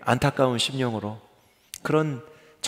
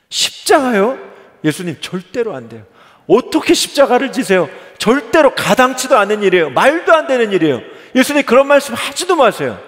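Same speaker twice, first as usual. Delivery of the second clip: much higher and louder, laughing protest; Peter protesting; 9 semitones higher, 8 dB louder than usual. Acted. Peter protesting to Jesus, high and loud with a laugh. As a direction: Peter flatly refusing, nearly laughing at the idea. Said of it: "한 번 더 대답을 해요".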